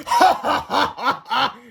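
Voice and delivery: loud, high scornful ha-ha; mocking laugh. A narrator's reading. Principal mocking the boys with a laugh. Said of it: "laughed Mister Krupp".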